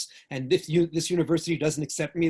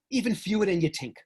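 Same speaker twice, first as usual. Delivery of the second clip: put-on thick New York accent, a touch higher; heavy New York accent; 4 semitones higher than usual. Answering the WASP classmate in a heavy New York accent. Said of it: "I put on my heaviest New York accent".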